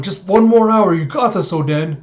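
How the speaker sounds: high, loud cheer that eases off; calling out. Retold or imitated. Crewman calling to the man on the chain, encouraging. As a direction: urge him on from up on deck. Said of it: "so Marco's calling out".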